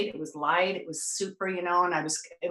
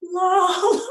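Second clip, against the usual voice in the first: amazed whoa; 13 semitones higher, 5 dB louder than usual. Retold or imitated. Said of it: "So then I'm all like".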